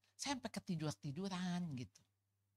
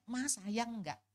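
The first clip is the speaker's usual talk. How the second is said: put-on slow childish plea; 4 semitones higher, much slower than usual. Child asking while being punished.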